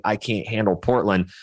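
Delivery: ordinary talk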